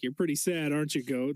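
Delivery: low-key teasing accusation; mock sympathy. Teasing the goats outside, mock sympathy. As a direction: needle the goat, ending low. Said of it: "You're like".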